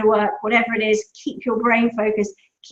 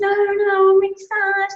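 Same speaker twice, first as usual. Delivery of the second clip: put-on upset child; 9 semitones higher, 4 dB louder than usual. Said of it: "He said".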